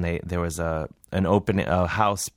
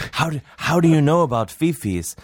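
high, louder amazed inmate; 8 semitones higher, 4 dB louder than usual. Retold or imitated. Inmate quizzing the comedian about fifis, amazed and high. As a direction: demand to know, astonished.

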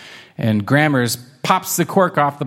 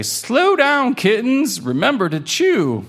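high, urgent then kind; gentle scolding grandparent; 10 semitones higher than usual. Acted. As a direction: call them to slow down.

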